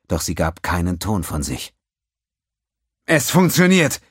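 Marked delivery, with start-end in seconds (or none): 3.0-4.0 high, loud cry of triumph; cheering. A narrator's reading. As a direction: shout it out in joy. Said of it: "jubelte Alcalet".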